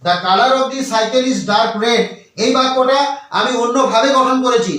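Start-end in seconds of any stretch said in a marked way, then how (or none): 0.0-2.0 slow dictation. Shown as a demonstration. Reads example sentence slowly.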